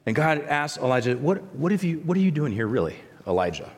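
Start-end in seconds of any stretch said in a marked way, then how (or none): 1.2-3.7 gentle question. Acted. God gently asks Elijah.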